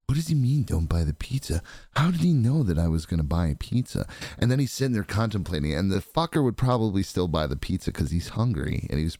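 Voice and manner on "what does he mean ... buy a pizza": mildly bewildered musing; the past self wondering aloud; puzzled Greg. Retold or imitated. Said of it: "Greg would be like".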